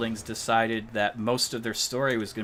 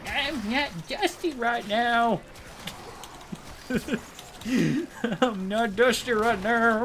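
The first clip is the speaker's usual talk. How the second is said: giggling; 11 semitones higher than usual. Real, not acted. Giggling denial.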